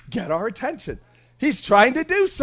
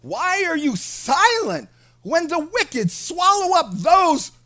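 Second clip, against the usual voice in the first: preached reading; 8 semitones higher, 5 dB louder, slower than usual. Real, not acted. Reads Habakkuk's complaint at full force.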